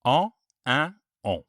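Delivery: the three nasal vowels said through the nose; En, en, on voiced as nasal vowels; French nasal vowels. Shown as a demonstration. Teacher showing the three French nasal sounds. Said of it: "represented by these symbols".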